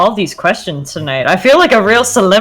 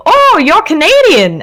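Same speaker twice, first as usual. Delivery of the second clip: higher, slower mock-amazed gushing; mock surprised fan; 9 semitones higher, 3 dB louder than usual. Canadian streamer imitating people who learn she's Canadian, mock-amazed. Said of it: "everyone going".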